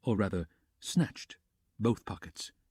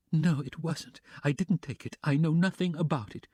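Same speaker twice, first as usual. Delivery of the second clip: heart-rending wail; 6 semitones higher than usual. Acted. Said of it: "she cried with a heart-rending wail".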